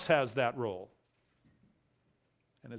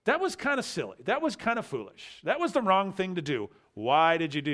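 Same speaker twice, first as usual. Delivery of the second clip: higher, chiding parent tone; parent scolding; 4 semitones higher than usual. Retold or imitated. Pastor voicing a parent chiding a kid, lightly higher. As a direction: chide like a parent, not really asking. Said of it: "It's just a statement to say".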